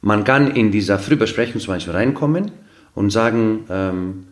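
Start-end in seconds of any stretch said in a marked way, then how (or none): none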